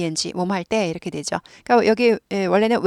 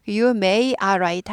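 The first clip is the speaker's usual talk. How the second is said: wrong form; much slower than usual. Shown as a demonstration. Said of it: "하면 안 되죠".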